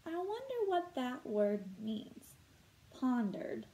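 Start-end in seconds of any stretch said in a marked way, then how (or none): 0.1-2.4 slow, musing wonder aloud; pretend wondering. Teacher modelling curiosity for students, slow musing.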